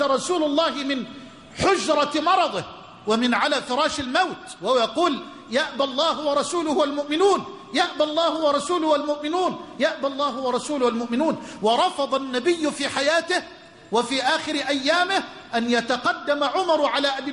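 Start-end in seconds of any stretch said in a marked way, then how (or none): 5.5-11.4 emphatic proclaiming. Retold or imitated. Prophet's emphatic refusal retold.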